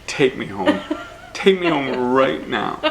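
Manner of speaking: mildly huffy, slowing on the repeat; mock indignant demand. Embarrassed boy tells his mom to drive home, mock indignant.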